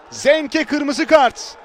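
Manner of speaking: drawn-out slow red card call; slow emphatic call. Real, not acted. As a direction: stretch each word out.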